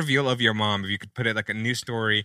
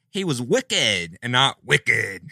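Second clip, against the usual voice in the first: put-on Boston accent; much slower than usual. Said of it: "was one of those a Boston accent".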